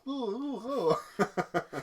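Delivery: put-on high cooing baby noises. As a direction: coo like an infant, laughing. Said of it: "do a baby voice".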